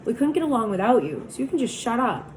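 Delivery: fierce. Acted. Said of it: "Two-Bit said fiercely".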